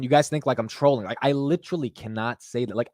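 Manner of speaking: ordinary delivery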